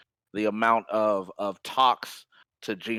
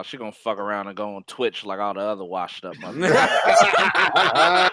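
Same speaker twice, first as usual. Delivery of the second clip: louder, laughing through it; laughing scornfully about washed up stars; laughing mockery; 4 dB louder than usual. Real, not acted. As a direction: roast her while laughing. Mocking, laughing.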